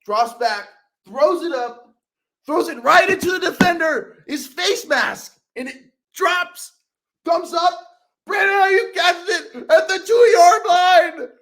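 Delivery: high-pitched, drawn-out suspense rising to a shout; excited play-by-play. Retold or imitated. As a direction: relive the play like a frantic commentator. Reenacting the big catch play-by-play.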